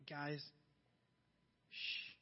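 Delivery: very soft, low hush; calm hush to frightened friends. Retold or imitated. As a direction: shush them gently. Jesus calming panicked disciples.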